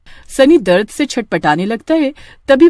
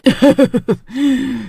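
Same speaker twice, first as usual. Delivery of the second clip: witch cackle; 5 semitones higher than usual. Acted. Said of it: "चुड़ैल पप्पू की आंखें निकाल लेती है".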